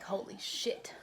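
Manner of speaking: unvoiced whisper of awe; whispered shock. Hearing the cellmate's nightmare, a spooked whisper. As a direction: breathe it, spooked.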